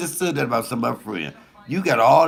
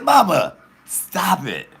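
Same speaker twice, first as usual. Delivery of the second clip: embarrassed son; 8 semitones higher, 4 dB louder, slower than usual. Retold or imitated. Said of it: "I'm like".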